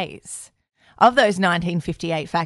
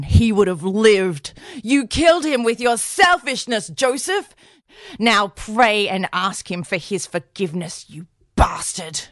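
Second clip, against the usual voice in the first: blaming mother. Retold or imitated. Drunk mother blaming Joe.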